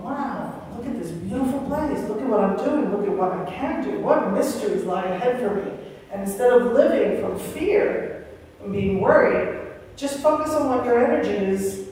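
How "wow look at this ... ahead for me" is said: joyful wonder. Retold or imitated. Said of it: "that joy of".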